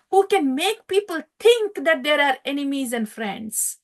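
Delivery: put-on boy astonished at his teachers' word; incredulous child. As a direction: marvel that they call anyone an enemy. Prahlad answers his teachers.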